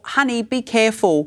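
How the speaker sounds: put-on a gentle word to a stranger's kid; gentle warning. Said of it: "a, a small".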